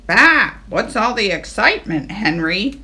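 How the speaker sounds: a mild sheep's bah; lightly voiced bleat. Sheep ask Henry, mild bleat. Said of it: "they bleated".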